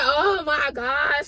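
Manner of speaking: drawn-out exasperated oh my gosh. Retold or imitated. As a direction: stretch it out, fed up. Fed up with rental counter.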